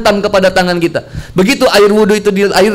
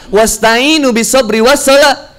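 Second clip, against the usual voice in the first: slow Quran recitation; slower than usual. Shown as a demonstration. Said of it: "ketika ada sabar dan sholat".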